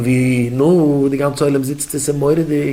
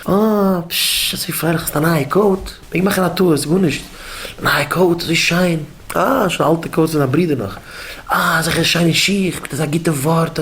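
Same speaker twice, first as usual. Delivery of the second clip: higher-pitched, admiring oohs; playful fussing in a raised pitch; cheerful admiring praise; 4 semitones higher than usual. Acted. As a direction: act out delighted compliments to a child. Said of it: "Da Sachen freilich von den Kindern".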